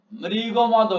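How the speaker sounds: "মৃগমদ" drawn out as mri-go-mo-do; four syllables. Shown as a demonstration. Teacher counting four beats, "মৃগমদ" syllable by syllable. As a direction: sound each open syllable of "মৃগমদ". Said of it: "চারবার উচ্চারণ করেছি".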